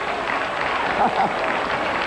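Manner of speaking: short laugh through the applause; real, brief laugh. Real, not acted. Preacher laughing after the crowd applauds, laugh.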